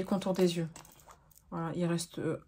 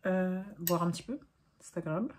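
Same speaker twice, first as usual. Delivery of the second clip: en buvant une gorgée; 5 dB quieter than usual. Real, not acted. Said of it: "Je bois, j'en profite".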